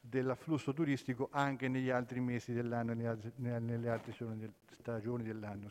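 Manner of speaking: muffled speech behind a face mask; through a face mask. Real, not acted. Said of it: "non è facile con la mascherina".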